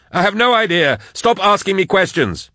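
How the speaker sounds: high-pitched exasperated retort; acted panic under questioning; flustered outburst. A narrator's reading. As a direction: push the voice up in agitation. Flustered character in an acted quarrel.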